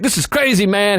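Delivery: kind of freaking out. Retold or imitated. Shaken carjacking victim to strangers, kind of freaking out. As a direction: imitate a rattled man. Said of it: "He was, like, kind of freaking out".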